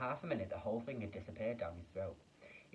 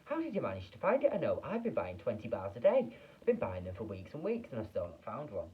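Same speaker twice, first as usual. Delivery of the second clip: envious shout; 6 dB louder than usual. Acted. Jealous crowd member.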